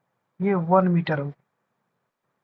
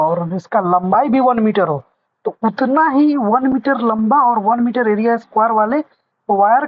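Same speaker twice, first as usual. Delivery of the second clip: louder, pressing re-explanation; emphatic explaining; 3 semitones higher, 6 dB louder than usual. Shown as a demonstration. Teacher explains again to puzzled students, louder and emphatic. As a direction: drive the definition home to confused students.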